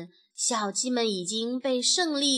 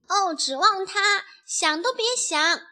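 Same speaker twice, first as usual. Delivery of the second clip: higher, scornful flare of temper; exasperated outburst; 8 semitones higher, 4 dB louder than usual. A narrator's reading. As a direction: snap with mild anger. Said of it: "卡门忍不住发火了".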